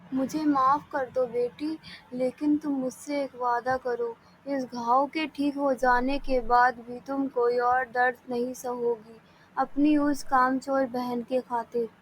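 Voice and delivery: gentle, low apology to a daughter; a tender mother-in-law asking forgiveness; loving. Acted. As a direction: speak it tenderly, like soothing a hurt child. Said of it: "बड़े प्यार से बोली".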